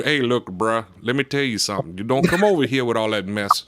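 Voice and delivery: lightly put-on Cajun accent. Shown as a demonstration. Local shows how DeRitter guys really sound, Cajun accent. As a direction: talk like a Louisiana Cajun, casual and familiar. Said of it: "those guys down there are really Cajun".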